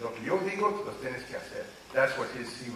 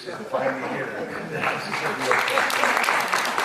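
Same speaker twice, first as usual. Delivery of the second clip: loud, slow laugh through the words; laughing, close to tears; laughing with emotion; 10 dB louder than usual. Real, not acted. Son laughs, moved, retelling his mother's blessing, laughing.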